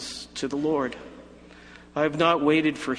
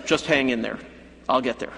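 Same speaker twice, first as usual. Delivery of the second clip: patronizing; 3 semitones lower, faster than usual. Pretend. Jesus brushing off John, mildly patronizing reassurance. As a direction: brush him off with false comfort. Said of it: "he could have been patronizing".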